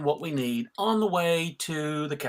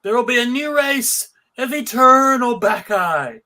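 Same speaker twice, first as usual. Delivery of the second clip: loud, grand villain's declaration, pitched higher; villainous proclamation; 4 semitones higher, 5 dB louder than usual. Acted. Bacchus to his Bacchae, loudly gloating over his coming triumph. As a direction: proclaim it to your followers like a gloating god.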